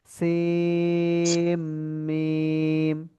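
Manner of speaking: "সিম" and "মিম" each held for four alif beats; slow recitation stretch; long madd stretch. Shown as a demonstration. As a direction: chant "সিম, মিম" with long drawn vowels. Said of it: "তকে এক আলিফ টেনে বলবো".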